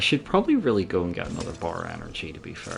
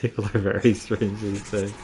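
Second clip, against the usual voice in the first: quoting a line. Retold or imitated. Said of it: "delivered with sincerity as well".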